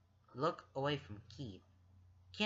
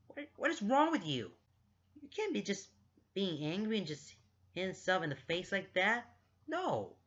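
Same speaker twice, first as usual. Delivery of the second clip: high-pitched, worked-up venting; exasperated rant; 5 semitones higher than usual. Real, not acted. Reader scolds Lance for getting so angry, exasperated. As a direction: rant at the character in real disbelief. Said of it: "put this into this rant".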